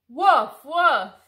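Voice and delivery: loud playful puppy woofs; puppy barks. Acted. Being Biscuit the puppy for the kids, loud playful woofs. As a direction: bark like a happy little dog.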